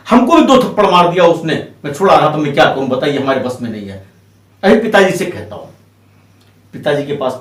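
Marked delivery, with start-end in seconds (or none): 0.1-4.1 grumbled excuse, sinking lower and trailing off; acted grumbling. Brother explaining he was slapped too, acted grumbling. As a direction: grumble helplessly, pitch falling steadily to the end. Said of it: "वो भी वहां बड़बड़ाने लगा".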